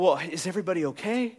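hesitant, eager-to-please mock voice; timid people-pleaser. Preacher imitating the greens, softly asking permission. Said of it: "they're going".

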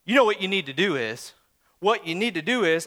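smug, knowing quote; know-it-all advice. Retold or imitated. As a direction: mimic the unwanted advisor. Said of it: "I hate that phrase".

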